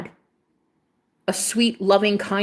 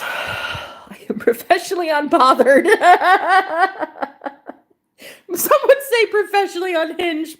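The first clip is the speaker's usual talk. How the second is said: breathy laughing whisper, climbing higher; 10 semitones higher, 4 dB louder than usual. Real, not acted. Reading a viewer's compliment, laughing in a whisper. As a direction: giggle the words out under your breath.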